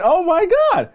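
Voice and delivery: high, delighted exclamation; excited gasp. Acted. New hire spotting another muffin on her desk, high delight. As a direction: react like a gift appeared.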